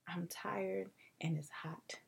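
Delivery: slow whispered complaint; slow weary whisper; tired whisper. Retold or imitated. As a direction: breathe it out, worn out. Complaining to parents.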